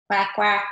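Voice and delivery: a bolder duck quack; big duck quack. Retold or imitated. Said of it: "The big ducks say".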